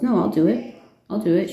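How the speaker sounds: a hint of a pushy little imp insisting; eager imp. Imp offers to spin the gold.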